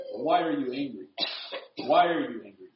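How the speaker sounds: mild parental probing; patient parent. Acted. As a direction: calmly press the child, lightly acted. Parent patiently repeats the question.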